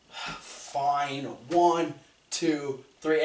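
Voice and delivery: imitating a grudging referee's count; disgruntled. Referee forced to count the pin, disgruntled. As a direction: count it out reluctantly, mildly disgruntled. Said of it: "the most disgruntled way".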